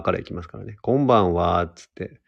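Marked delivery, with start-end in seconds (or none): 0.8-1.6 Kansai-accented greeting demo. Shown as a demonstration. Host showing how the Kansai broadcast would open, Kansai accent. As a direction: open the show in Kansai dialect. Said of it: "関西弁でやるってやってみたい".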